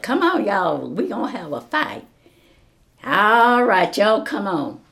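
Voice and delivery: loud call to fight. Retold or imitated. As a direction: shout them into the ring. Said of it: "I said".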